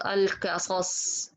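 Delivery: "القصص" with letters thinned, ق like a light k; light-letter mistake. Shown as a demonstration. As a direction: demonstrate faulty "القصص", tongue forward, alkasas. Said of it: "because all of them is heavy".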